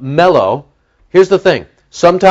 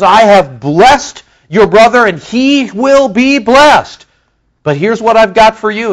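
solemn Isaac; 7 semitones higher, 3 dB louder than usual. Retold or imitated. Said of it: "He says".

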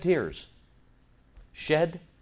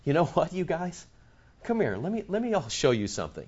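soft, coaxing aside; gently confiding; 9 dB quieter, faster than usual. Acted. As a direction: beckon them over quietly, as if to reveal a secret. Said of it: "wouldn't you think it would be more like".

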